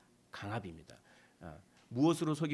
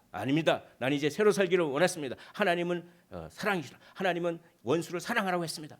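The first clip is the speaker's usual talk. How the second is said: loud, quick confident answer; loud fast rebuttal; 4 semitones higher, 6 dB louder than usual. Acted. Believer answering Satan with Scripture, loud and fast. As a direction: strike back with the Word.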